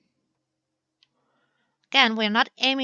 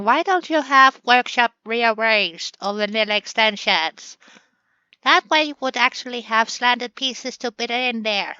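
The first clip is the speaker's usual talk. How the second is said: louder, mildly imitated complaint; mock viewer yell; 5 dB louder than usual. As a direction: voice a nagging viewer, a bit louder. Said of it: "you are yelling at me already".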